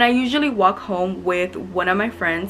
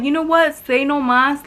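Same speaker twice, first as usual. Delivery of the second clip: higher, punchy mock challenge; raised-pitch quarrel retelling; retold comeback; 6 semitones higher, 4 dB louder than usual. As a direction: act out firing back at a rival.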